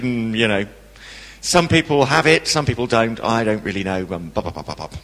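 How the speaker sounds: lightly voiced vague, dismissive chaplain, trailing down low; a hint of a bored chaplain brushing off a question; offhand chaplain. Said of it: "Like that".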